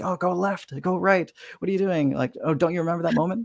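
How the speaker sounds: high, play-acted yelling crowd voices. Retelling how audience members call out to the player: imitating audience yelling. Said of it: "really been yelling at each other".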